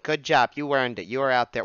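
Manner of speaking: put-on accent for an approving wife; Missus Claus. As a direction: slip into a playful, unplaceable accent. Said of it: "Why do I keep going to an accent?".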